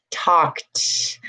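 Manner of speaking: "talked" as tawkt, one syllable; final T sound. Shown as a demonstration. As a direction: release a T at the end of "talked". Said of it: "it's a T".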